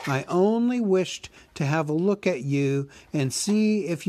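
a small hobbit flattering the dragon; Bilbo the hobbit. Acted. Narrator voices Bilbo.

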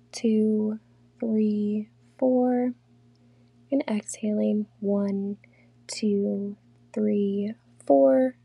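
unhurried meditation guide, long pauses between phrases; guided meditation. Real, not acted. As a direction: lead them calmly through breathing, counts evenly spaced. Leads a guided breathing meditation.

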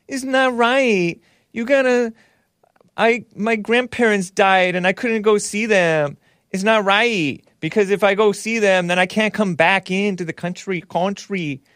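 high mock-pleading immigrant girl voice; mocking accented whine. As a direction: pitch it up high and drag it out, mocking. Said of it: "Am I being racist by talking like that?".

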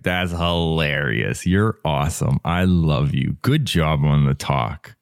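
lightly acted kind inner voice, easygoing; supportive self-talk. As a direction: cheer yourself on gently. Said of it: "to have the support of myself".

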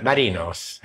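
Marinos said with a clear final s; Marinos, the ending s sounded out. Shown as a demonstration. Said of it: "You'd say the S".

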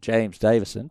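name said in an Australian accent. Shown as a demonstration. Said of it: "I'll do it in my best Australian accent".

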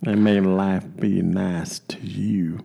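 hushed, slow mock blessing; mock tender blessing. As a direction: whisper it like a tearful goodbye. Mock heartfelt farewell.

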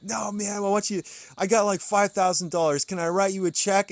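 hammed-up insistence on paying; imitating eager donor. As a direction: donor pressing the pastor to take a check. Insistent donor voiced in story.

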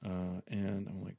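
ordinary delivery

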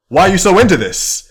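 high, loud, incredulous question; mock bafflement. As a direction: ask in playful disbelief. Voices baffled reaction to intense child.

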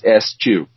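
"eschew" said as ess-CHOO; standard pronunciation. Shown as a demonstration. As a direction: clear S then CH in "eschew". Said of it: "only slightly different than the American. Basically".

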